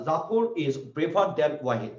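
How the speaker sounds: slow and deliberate, word by word; slow dictation. Shown as a demonstration. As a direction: read the example slowly for the class. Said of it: "এখানে প্রেক্ষাপটটা হচ্ছে আলাদা".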